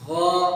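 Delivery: غا voiced from the throat; voiced غا with no scratch; 1 ghain demo. Shown as a demonstration. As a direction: sound غا with voice running through. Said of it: "اس میں آواز ہو".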